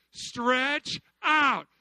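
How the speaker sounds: shouted Stretch out; loud call. Shown as a demonstration. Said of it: "You had to what?".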